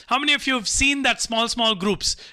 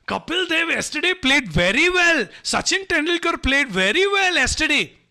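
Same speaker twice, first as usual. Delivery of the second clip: eager fake sports talk; 5 semitones higher than usual. Outsider fakes sports talk.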